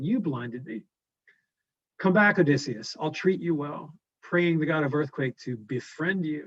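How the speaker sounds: a hint of a mournful giant; lament, then coax him back; lightly voiced Cyclops. A blind Cyclops calling Odysseus back, lightly voiced.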